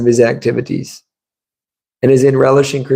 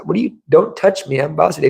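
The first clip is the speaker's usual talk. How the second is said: higher, indignant voice of a man claiming to be Vasudev; imitating a self-proclaimed god; 4 semitones higher than usual. Visitor with trash can on head refusing to be touched, higher indignant. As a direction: push him off, higher, as the deluded man. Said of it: "He said".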